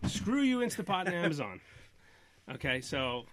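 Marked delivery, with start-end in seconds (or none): 0.1-1.6 playful indignant jab; mock outrage. Real, not acted. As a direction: shake a fist in jest.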